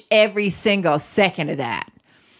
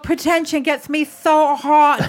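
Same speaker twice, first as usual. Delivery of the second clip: ecstatic shouting; 5 semitones higher than usual. Pretend. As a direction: yell it out in mock passion.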